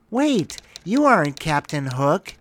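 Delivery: high squeaky pixie voice; angry pixie squeak. Acted. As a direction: squeak it like a cross fairy. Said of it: "the angry pixie squeaked".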